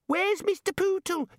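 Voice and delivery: put-on very high baby wail; whining toddler. A narrator's reading. Toddler self interrupts wizard asking for toy, high wail. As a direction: squeal it like a tot missing a toy. Child self breaks through.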